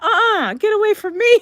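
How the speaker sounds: high, loud frantic brush-off; retold refusal. Son fending off his panicked mother, alarmed. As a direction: imitate an alarmed yell of refusal.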